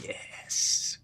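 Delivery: a breathy inner whisper of triumph; secret whispered yes. Retold or imitated. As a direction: whisper it, gloating inside. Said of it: "Inside, I'm saying".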